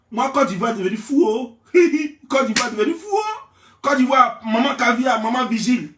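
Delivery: laughing through the words; cracking up while he says it. Real, not acted. Vlogger cracking himself up over his own joke, laughing.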